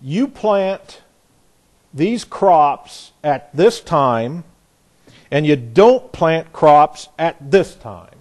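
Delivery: a parent spelling out rules slowly; firm commanding dictate. Retold or imitated. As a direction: lay down the rules word by word, slowly. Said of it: "he'd say".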